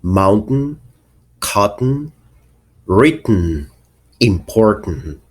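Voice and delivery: "mountain, cotton, written, important" with a glottal stop for the T. Shown as a demonstration. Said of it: "sometimes it's a glottal stop".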